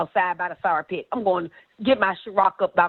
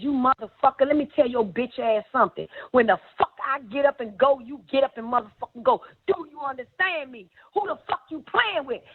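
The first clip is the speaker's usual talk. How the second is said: angry scolding; 3 semitones higher than usual. Retold or imitated. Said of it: "She turns to him and says".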